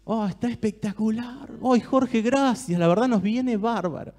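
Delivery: savouring, drawn-out storyteller voice; mouth-watering guided visualization; guided imagery. Acted. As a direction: paint the tray of food slowly so they can taste it. Guided imagery of a food tray.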